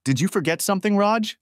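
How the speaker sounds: rising, alluring wife's question; breathy seductive call to a lover; sultry voice. A narrator's reading. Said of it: "I heard a sultry voice say".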